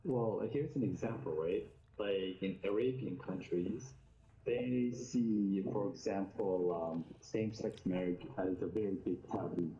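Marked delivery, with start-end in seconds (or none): 2.0-9.7 muffled, bubbling underwater sound; talking underwater. Real, not acted. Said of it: "You're sounding like you're talking underwater".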